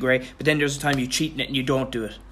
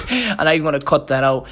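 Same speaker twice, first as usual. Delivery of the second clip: amused, half-laughing promise; laughing aside; 5 dB louder than usual. Real, not acted. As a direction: still laughing, talk through it. Laughing about the awkward pause.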